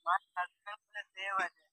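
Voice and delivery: incredulous. Real, not acted. Caller amazed at saved name.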